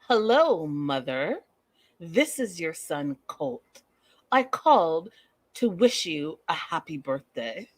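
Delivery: lightly voiced eerie mama's boy; a hint of a stiff, formal son greeting his mother; slow, overly polite phone greeting; creepy son voice. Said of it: "let me get into character".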